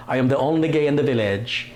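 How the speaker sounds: a hint of a Welsh accent; half-successful Welsh accent impression; attempted Welsh accent. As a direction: try a Welsh accent, not quite landing it. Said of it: "in his Welsh accent".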